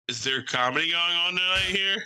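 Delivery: high, doubtful asking; tentative retold question. Comic walking into an empty bar, tentative question.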